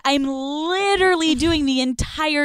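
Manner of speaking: high mock-outrageous confession; exaggerated sarcastic brag. Podcaster acting out an absurd answer to his questioning, sarcastic. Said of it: "you go complete opposite".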